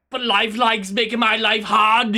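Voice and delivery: put-on loud Schwarzenegger-like accent creeping in; accidental put-on accent. Streamer explaining why plans may slip, drifting into a put-on accent. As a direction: slip into a half-Arnold accent. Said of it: "went with an accent there".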